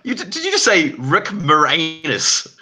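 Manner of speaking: high, loud and fast, wait, hold up; mock double take. Real, not acted. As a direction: stop everything in disbelief.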